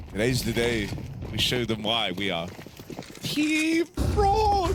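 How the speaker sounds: hammed-up French accent, rising on France; mock French team captain rallying. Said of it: "I love the Team France bit".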